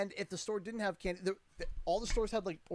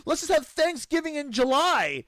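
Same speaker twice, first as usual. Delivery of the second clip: sarcastic, louder; 9 semitones higher, 9 dB louder than usual. Real, not acted. Sarcastic follow-up.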